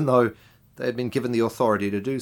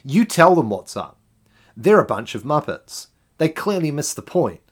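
smug cheering on; 4 semitones higher, 5 dB louder than usual. Retold or imitated. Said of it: "we want to think to ourselves".

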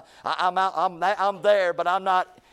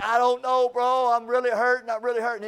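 imitated pained pleading; 6 semitones higher, 4 dB louder than usual. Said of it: "He was in much pain".

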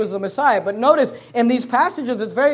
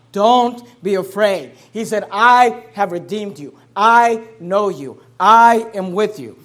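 slow and louder, each phrase weighed; emphatic scripture quote; 7 dB louder, slower than usual. Acted. Preacher to congregation, voicing God's promise, slow and loud. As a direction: proclaim it slowly, word by word.

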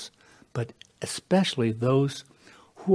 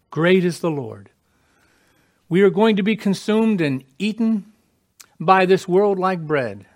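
fervent outburst; 6 semitones higher, 6 dB louder than usual. Acted. Preacher bursts out loud.

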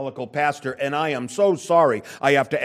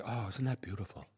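soft, lower mock-admiring "Oh, isn't that beautiful?"; mock gushing; 6 semitones lower, 15 dB quieter than usual. Preacher mocking the congregation's praise, soft and lightly sentimental. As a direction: lightly parody a sentimental churchgoer. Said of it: "we always say".

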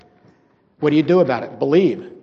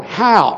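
"how" punched louder; stress on "how"; 3 semitones higher, 6 dB louder than usual. Shown as a demonstration. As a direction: underline the word "how" with force. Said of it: "then I underline the word".

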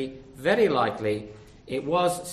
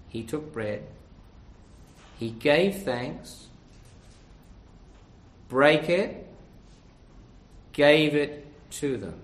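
slow, weighty reading; 5 dB louder, slower than usual. Shown as a demonstration. Preacher reading a powerful verse to the congregation, slow and weighty. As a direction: read slowly with long pauses between phrases. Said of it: "I'll read it slowly because it's powerful".

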